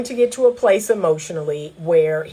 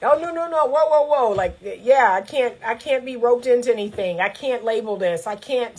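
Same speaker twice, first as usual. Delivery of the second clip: higher, mock alarm fading to a mumble; avoidant man panicking; 3 semitones higher than usual. Imitating the man refusing to commit, higher and alarmed. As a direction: back away from the label. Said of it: "avoidant man refusing commitment".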